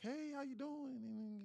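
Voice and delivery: high, drawn-out entertainer greeting; slow, singsong put-on hello; put-on livestream voice. Shown as a demonstration. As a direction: stretch it out in a fake high host voice. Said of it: "That's not my real voice".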